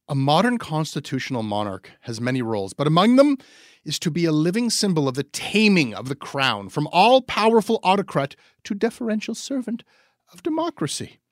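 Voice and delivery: high, loud, swooping pompous reading voice; grandly romantic reading. Pretend. Reading Coyne's monarchy column aloud to cohost, grandly romantic. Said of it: "I don't know why I'm doing this voice recording".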